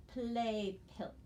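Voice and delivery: second teacher reading of play pilt; repeat read. Shown as a demonstration. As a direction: play pilt again, steadier. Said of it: "then we need to read the word".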